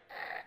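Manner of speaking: short mock baby bleat; imitated newborn noise. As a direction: croak like a scrunched-up newborn.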